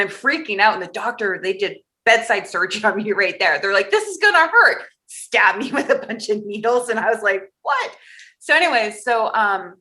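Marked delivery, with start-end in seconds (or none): 3.9-4.8 mock doctor warning. Quoting the doctor before surgery. 7.6-8.0 a high, startled what; much higher, caught off guard; shocked. Retold or imitated. Her reaction to the needles.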